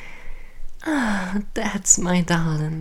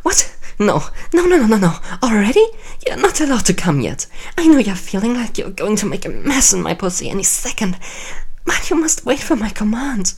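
louder, fast, imperious scolding; commanding; 3 dB louder than usual. Acted. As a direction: command him like a queen. Queen forbids him to finish.

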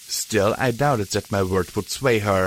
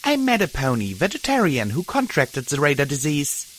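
sharply; 4 semitones higher than usual. Acted. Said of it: "I said sharply".

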